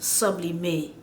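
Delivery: "sublimate" stressed on sub, final T dropped; English front stress. Shown as a demonstration. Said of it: "how English will say it".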